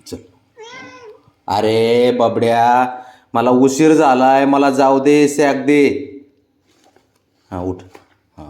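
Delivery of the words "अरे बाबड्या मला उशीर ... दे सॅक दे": slow, louder, drawn out plea; firm slow demand. Real, not acted. Owner insisting the pet give the bag, slow and louder. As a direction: stretch each word, insisting.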